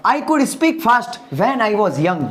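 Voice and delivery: slow, careful English sentence; slow model sentence. Shown as a demonstration. Teacher models the English sentence slowly for students. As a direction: say each word slowly for the class to copy. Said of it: "example".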